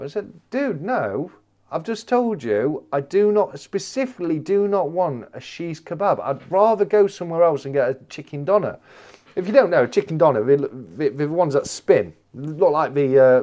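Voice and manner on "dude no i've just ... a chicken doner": higher-pitched retold protest; insist, leaning on each refusal; exasperated insistence. Customer objecting to the wrong kebab, exasperated insistence.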